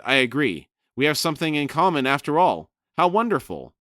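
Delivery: high, bright-eyed overly delighted gush. Acted. Lady Envy gushing at Lannis Togg, high delighted voice. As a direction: pour on the mock delight, pitched high.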